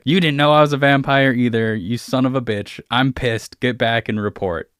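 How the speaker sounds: hammed-up irritated villain; angry vampire. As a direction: send the errand boy away in a huff. Vampire dismisses the player angrily.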